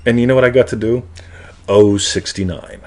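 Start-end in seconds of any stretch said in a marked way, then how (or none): 1.7-2.8 slow drawn-out number call; bingo caller. Retold or imitated. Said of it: "Bingo caller".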